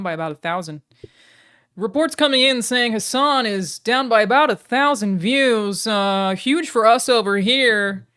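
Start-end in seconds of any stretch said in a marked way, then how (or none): 1.8-8.1 loud, slow announcer voice; mock news report. Streamer reporting rival's view drop, mock announcer.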